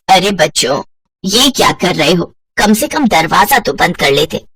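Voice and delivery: lightly voiced older woman, amused; mother-in-law voice. Kamla teases her son and new bride, amused older woman.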